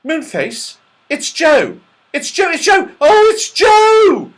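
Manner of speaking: high calls building to a shout; loud excited yell. A narrator's reading. Beth and Franny recognise their brother's voice, yelling. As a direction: yell the news with mounting excitement. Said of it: "yelled out loudly".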